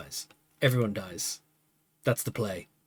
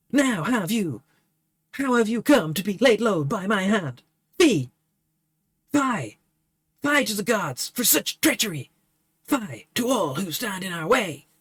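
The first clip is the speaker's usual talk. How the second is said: raised, hammed-up grief of a knight; anguished lament; 4 semitones higher than usual. Burnett lamenting Favia's death, high hammed-up grief. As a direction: wail it to the heavens.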